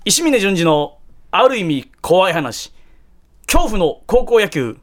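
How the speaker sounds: slow, ominous storyteller announcing the title; creepy ghost story title. Acted. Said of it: "稲川淳二さんの、えー、話っぽく".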